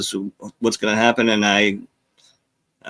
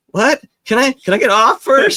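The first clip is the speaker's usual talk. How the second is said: higher, half-laughing protest; laughing "what?" with raised pitch; retold disbelief; 13 semitones higher, 5 dB louder than usual. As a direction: play your own stunned surprise. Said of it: "I was like".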